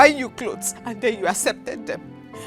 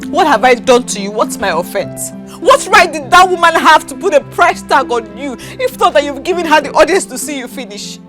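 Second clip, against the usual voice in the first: hurt, crying protest; tearful pleading; 2 semitones lower than usual. Acted. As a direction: plead with your partner through tears. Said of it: "Baby, stop crying now".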